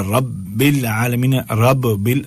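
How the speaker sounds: "رب بل" split as rabb, bil; doubled baa. Shown as a demonstration. Teacher giving an example, split doubled b. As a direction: sound both b's in "رب العالمین". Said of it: "دونوں با ہیں".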